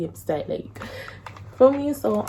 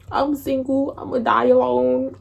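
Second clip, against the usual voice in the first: higher, self-pitying wail; hammed-up woe-is-me whine; mock lament; 4 semitones higher than usual. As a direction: moan it dramatically to a friend. Re-enacts self-pitying lament on phone.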